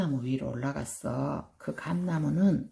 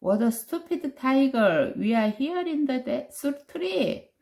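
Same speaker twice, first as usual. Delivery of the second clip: mocking laugh; 7 semitones higher, much slower than usual. Little sister to tiger, higher teasing taunt. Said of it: "couldn't help laughing".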